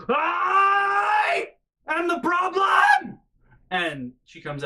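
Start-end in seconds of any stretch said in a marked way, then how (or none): 0.1-3.2 drawn-out, very high, very loud shriek; imitated scream. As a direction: wail it from the next room like the Banshee. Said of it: "and she goes".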